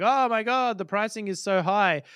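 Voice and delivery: imitating shock at a price; mock dismay. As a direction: exclaim like a shocked customer. Acts out reaction to high pricing.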